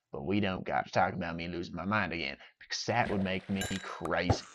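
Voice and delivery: soft, lightly put-on goofy voice; a hint of a weird character musing; silly voice. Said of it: "now that I'm done doing voices".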